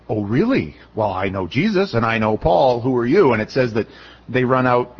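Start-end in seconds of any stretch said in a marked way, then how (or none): 0.1-3.3 lightly voiced demon. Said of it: "the demon says".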